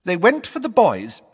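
put-on high, urgent old lady's voice; nervous old witness finding her nerve; eager old neighbour. A narrator's reading. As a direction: blurt it out with rising hope. Mrs Figg voiced, eager.

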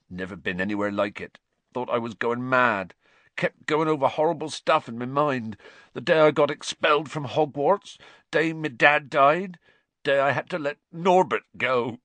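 Hagrid. A narrator's reading. Hagrid voiced in story.

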